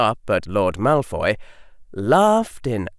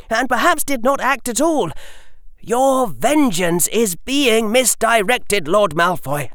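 put-on higher, measured clever boy arguing; a calm boy reasoning with a lord; young boy voice; 9 semitones higher than usual. A narrator's reading.

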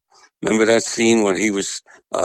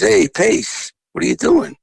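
higher, lightly voiced Eddie greeting; imitating Eddie; 11 semitones higher, 3 dB louder than usual. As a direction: call out like Eddie spotting a friend. And he says.

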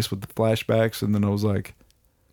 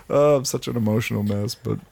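normal talking voice

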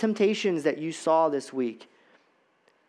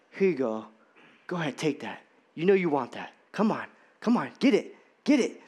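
coaxing Satan; 2 semitones lower, faster than usual. Acted. Satan tempting the churchgoer with bait, hushed coaxing.

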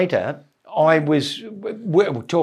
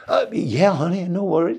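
American operator; 4 semitones higher than usual. Retold or imitated. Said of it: "they can't understand".

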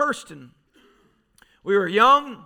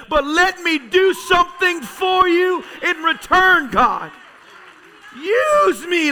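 fervent prayer cry; 4 semitones higher than usual. Retold or imitated. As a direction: beg God to use you, voice rising. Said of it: "I'm twenty years old crying out".

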